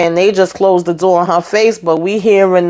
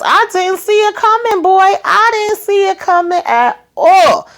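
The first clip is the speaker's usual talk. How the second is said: stunned disbelief; 13 semitones higher than usual. Real, not acted. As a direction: drag it out like you can't believe it. Own disbelief at the twist.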